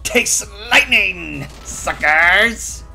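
slow gloating villain taunt; hammy stock villain. Pretend. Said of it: "That stereotypical villain voice was actually pretty good".

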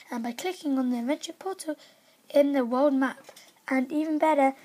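upbeat announcer read; lively game-news announcer. Acted. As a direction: sell each line like an ad. Reads game news aloud.

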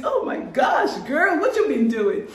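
a gossipy friend squealing with surprise; surprised friend. Pretend. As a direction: shriek it like a friend catching the news. Mock friend shrieking surprise.

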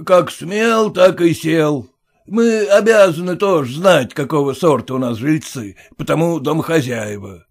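blunt merchant scoffing at formality; gruff merchant. Acted. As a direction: push in like the owner. Merchant lectures.

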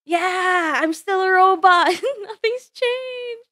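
high, bubbly character greeting; excited Marjorie voice. Acted. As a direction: squeal hello to returning fans. VTuber greeting as excited Marjorie persona.

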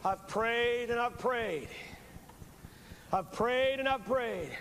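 slow, drawn-out pleading prayer; lightly voiced old preacher praying slowly; Peter Marshall impression. Preacher imitating Peter Marshall's prayer, slow and earnest. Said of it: "what Peter Marshall would say? Something like this".

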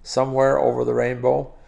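song lyrics spoken as metered verse; spoken lyric with a lilting beat; rhythmic recitation. Shown as a demonstration. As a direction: recite in even phrases, lifting and stretching key words. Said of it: "shijo is a very natural, very beautiful sort of, uh, rhythm".

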